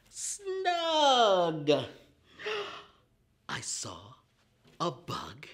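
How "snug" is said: higher, louder triumphant Snug; excited reveal. Acted. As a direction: land the blended word with delight. Child lesson word reveal.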